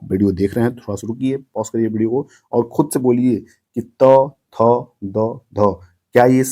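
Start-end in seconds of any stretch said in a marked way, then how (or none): 3.8-5.7 त, थ, द, ध with the tongue touching the upper teeth; dental sounds. Shown as a demonstration. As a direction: demonstrate dental त, थ, द, ध as separate syllables. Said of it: "ऊपर वाला जो दांत है उसको टच".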